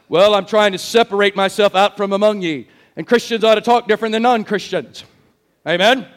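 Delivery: lightly voiced sanctimonious churchgoer; mock a religious man explaining himself; pious church voice. Churchgoer explaining why he talks differently, mildly mock-pious. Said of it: "he talked like this".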